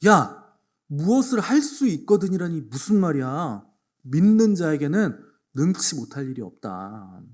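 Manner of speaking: indignant rebuke. Retold or imitated. Jesus rebuking the doubting father, indignant and slow. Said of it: "주님이 발끈하신 거예요".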